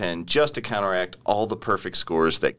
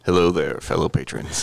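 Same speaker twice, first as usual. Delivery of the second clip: put-on deep voice; 4 semitones lower than usual. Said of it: "your voice isn't that deep".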